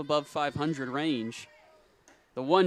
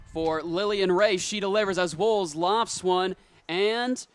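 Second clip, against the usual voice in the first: higher-pitched, building suspense on the pitch; excited play-by-play; 4 semitones higher, 4 dB louder than usual. Real, not acted. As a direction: call it live, hanging on the outcome. Live call of the big pitch.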